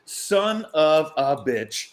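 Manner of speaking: slow, stretched-out mock groan of regret; slow rueful curse; drawn-out curse. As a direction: drag the curse out slowly. Regret at missing the chance.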